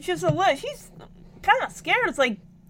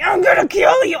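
sobbing yell, louder and higher; crying angry shout; 5 semitones higher, 7 dB louder than usual. Retold or imitated. A kid sobs a furious threat at her dad. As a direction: scream it through tears at the dad. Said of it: "I was so angry".

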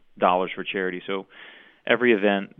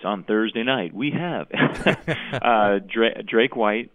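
promoter voice. Shown as a demonstration. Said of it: "my promoter voice".

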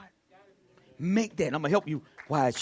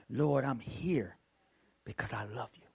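tender prayer; 5 semitones lower, 8 dB quieter than usual. Acted.

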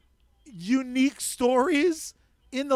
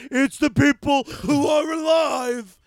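sarcastic rant; 3 semitones higher, 4 dB louder, slower than usual. Real, not acted. Ranting about the show's theme.

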